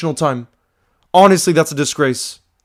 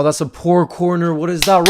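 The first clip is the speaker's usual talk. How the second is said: normal talking voice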